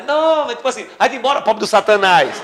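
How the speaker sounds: loud, high brush-off; mock dismissive shout. Woman brushing him off, loud mock shout. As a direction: shoo him away. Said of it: "A mulher".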